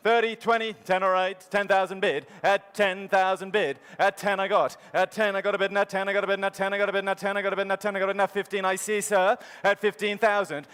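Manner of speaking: fast rolling auction chant; auctioneer. Real, not acted. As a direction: keep the bids rolling like an auctioneer. Auctioneer calling bids.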